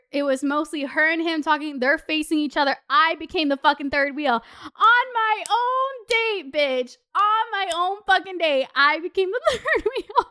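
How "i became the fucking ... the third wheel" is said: high, drawn-out indignant complaint. Real, not acted. Complaining she was sidelined on her own date, indignant. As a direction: stretch it out in high, laughing outrage. Indignant about being third wheel.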